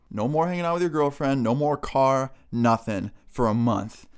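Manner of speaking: mom laying down the punishment, lightly acted; stern mom. Mom grounding her younger son, stern mom. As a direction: imitate a mom listing what is banned.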